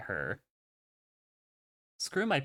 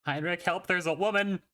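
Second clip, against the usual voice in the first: panicked call; 4 semitones higher than usual. Acted. Character crying for help.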